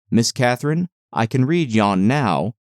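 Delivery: lightly voiced clumsy pride; awkward elation. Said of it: "with a stupid mixture of awkwardness and elation".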